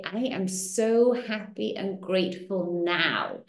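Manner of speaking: slow, measured affirmation; deliberate affirmation. Shown as a demonstration. Coach models the sentence to learn by heart, slow and deliberate. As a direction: spell it out phrase by phrase.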